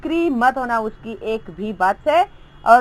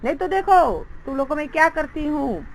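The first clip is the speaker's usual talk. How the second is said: scolding teacher; 4 semitones higher than usual. Acted. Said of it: "वो उन लोगों को डांटने लग गई".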